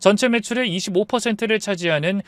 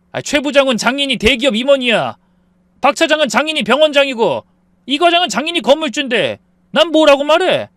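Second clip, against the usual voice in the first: loud complaint; 10 semitones higher, 7 dB louder than usual. Acted. 부부싸움, 남편이 소리침.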